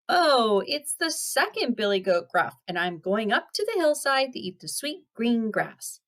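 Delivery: lightly voiced middle-sized goat; not-so-small goat voice. Second goat answering the troll, in a mildly small voice. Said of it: "his voice was not so small".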